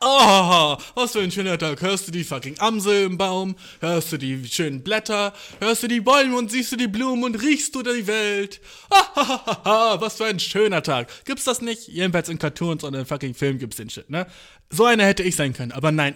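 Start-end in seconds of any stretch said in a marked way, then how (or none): 0.1-11.1 a touch of sing-song delight, ending in a laugh; mock cheerful stroller. Mocking people who find the world lovely, dreamy cheer. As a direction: lightly play a blissful nature lover. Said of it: "einfach so draußen rumlaufen und denken".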